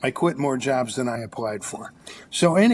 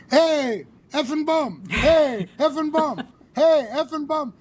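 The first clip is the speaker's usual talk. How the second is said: much higher mock shout down the street; imitated yell; 12 semitones higher than usual. Cyclist hailing his buddy from the bike, high mock shout. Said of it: "he's yelling at the top of his lungs".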